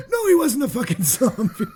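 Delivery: high put-on character voice; mock exasperated reply. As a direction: play the outraged answer for laughs. Acts the exasperated comic reply.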